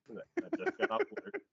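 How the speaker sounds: high airy husband voice; hammed-up clueless husband; mock dumb husband. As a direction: say it high and dopey. Voicing husband mockingly.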